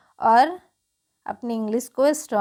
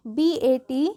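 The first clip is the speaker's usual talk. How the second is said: slow spelling out; much slower than usual. Shown as a demonstration. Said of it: "सिर्फ आकार इसमें change हो जाएगी".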